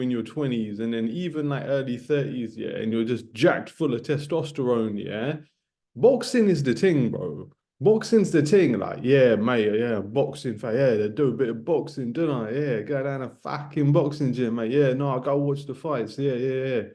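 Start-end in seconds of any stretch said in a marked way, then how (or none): 5.9-16.8 hammed-up London boxing-fan accent; mock laddish London accent. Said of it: "I don't know why I've got this accent".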